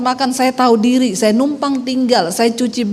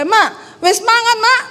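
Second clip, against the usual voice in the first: much higher, laughing call to mother-in-law; blunt Sulawesi Javanese; 9 semitones higher, slower than usual. Retold or imitated. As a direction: blurt it out with a rising Manado tune. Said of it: "saya ketemu mertua saya". (menyapa mertua dengan nada naik logat Sulawesi)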